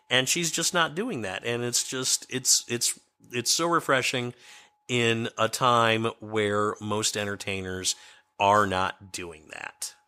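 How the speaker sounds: hoarse, scratchy voice. Real, not acted. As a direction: talk through a scratchy throat. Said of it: "my scratchy voice throughout this entire podcast".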